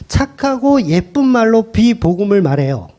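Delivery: 착하고 예쁜 말로 said in a put-on sweet tone; sweet mock voice. Shown as a demonstration. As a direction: play the smooth deceiver kindly. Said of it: "착하고 예쁜 말로 비복음을 말하면". (달콤하게 꾸민 목소리)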